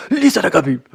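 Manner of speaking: loud, high quote broken by laughter; laughing imitation. Retelling a funny movie scene to viewers, laughing loudly. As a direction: laugh through the name while acting it out. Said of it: "it's so funny to me".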